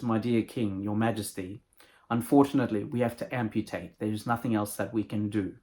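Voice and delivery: low, soft doctor breaking bad news; grave doctor. Doctor tells the king he must amputate, low and grave.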